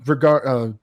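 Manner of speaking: slow, loud epic build; dramatic buildup. Real, not acted. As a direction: draw it out like a legend. Player pitching a dramatic Alamo story.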